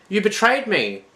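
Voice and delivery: high, loud wounded anger; anguished accusation. Acted. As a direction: throw the betrayal at her. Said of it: "he said".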